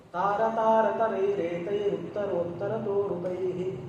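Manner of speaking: steady chant, slowing at the end; verse recitation. Acted. Teacher shows students the two-syllable verse, rhythmic chant.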